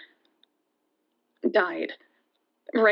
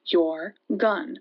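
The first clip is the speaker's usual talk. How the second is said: menacing demand; 2 semitones lower, much slower than usual. Retold or imitated. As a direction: spell it out like a threat. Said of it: "And he was like".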